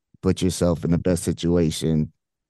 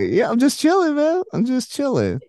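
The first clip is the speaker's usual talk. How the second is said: laid-back chill. Retold or imitated. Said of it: "I'm like".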